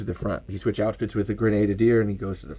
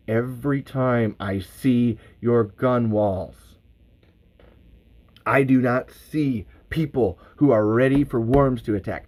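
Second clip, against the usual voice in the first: slow, deliberate speech with contained anger; mad, holding back; slower than usual. Acted. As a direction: hold it together, trying not to yell. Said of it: "I'm so mad, but trying to hold this shit together and not yell".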